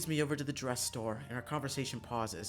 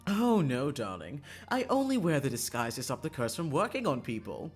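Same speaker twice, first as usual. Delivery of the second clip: theatrical Karma; 2 semitones higher, 5 dB louder than usual. Acted. Karma explains the disguise to Lavender, theatrical. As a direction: swoop in grandly, then explain lightly.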